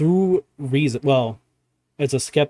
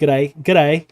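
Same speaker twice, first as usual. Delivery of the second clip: mock Aussie accent; 4 dB louder than usual. Shown as a demonstration. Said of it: "Bad Aussie accents".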